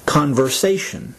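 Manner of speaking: "conversation" with the accent on "sa"; third-syllable stress. Shown as a demonstration. Teacher saying the word for learners, "conversation" stressed on "sa". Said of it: "third syllable is to be accented".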